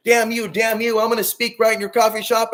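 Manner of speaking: half-hammed ranting outburst; mock rage. Showing viewers his rage at coffee shops, mock rage. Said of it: "this rage that you see from me".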